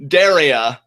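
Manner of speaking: Daria said emphatically as DAIR-ee-a; careful corrected pronunciation. Shown as a demonstration. Host repeats the corrected name, careful pronunciation. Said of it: "I will not make this a, a Ciampa fiasco".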